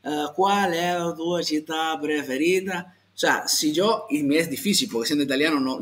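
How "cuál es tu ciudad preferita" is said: slow, exaggerated foreigner's botching of "¿Cuál es tu ciudad preferita?"; mock non-native "¿Cuál es tu ciudad preferita?", drawn out; badly pronounced Italian. Shown as a demonstration. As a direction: drag and slur "¿Cuál es tu ciudad preferita?" like a clumsy learner. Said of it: "no logro hacerlo mal".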